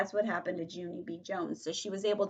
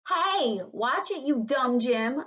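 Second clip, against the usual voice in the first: high, loud scolding shout; loud, indignant kid's yell; angry holler; 6 semitones higher, 6 dB louder, slower than usual. Acted. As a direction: holler it at a classmate. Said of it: "I hollered at him".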